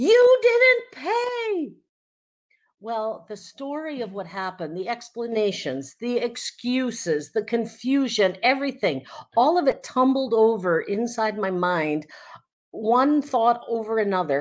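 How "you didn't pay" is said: mock very high, furious scream, "pay" drawn out. Retelling how a woman barged in about an unpaid gas purchase: retelling her scream. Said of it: "she screamed".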